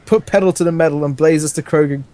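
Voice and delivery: hammed-up roar, then settling into the order. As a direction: bellow it like a hammy commander. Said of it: "Roared Garfield".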